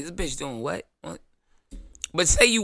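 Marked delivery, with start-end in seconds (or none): 0.0-1.2 quiet, stunned "doing what?"; incredulous disbelief. Pretend. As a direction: react like you can't believe it.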